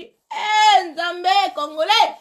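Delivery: slow stretched cry "hé, Nzambe"; exasperated cry. Real, not acted. Storyteller groaning about Congolese men, slow and stretched. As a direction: throw up your hands in disbelief.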